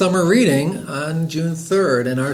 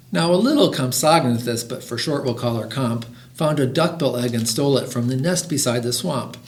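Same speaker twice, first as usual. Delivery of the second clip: lively, rhythmic read-aloud; children's story reading. A narrator's reading. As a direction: read a rhyming picture book to listeners. Reads a picture book aloud.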